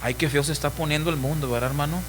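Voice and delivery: a hint of a scared churchgoer; mock alarmed. Half-converted believer frightened by the world, quick and soft. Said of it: "se asusta y dice".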